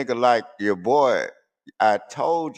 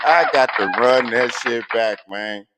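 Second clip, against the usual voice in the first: "I got to run that shit back" called out louder; hyped call out; 3 semitones higher, 6 dB louder than usual. Real, not acted. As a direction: shout it out, hyped to replay the track. Wants the song replayed.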